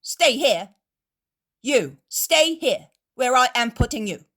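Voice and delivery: loud, high threatening shout; angry threat. A narrator's reading. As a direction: threaten to strike them, slowing on orders. Innkeeper threatens the Pharisees.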